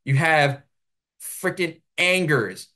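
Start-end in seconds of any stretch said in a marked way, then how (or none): 1.2-2.7 Angers said the American way as ANG-gers, with a hard g and an r; American pronunciation. Shown as a demonstration. Commentator mocking French names, Angers said the American way. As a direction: Angers read as an English word. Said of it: "this is the American way to say these names".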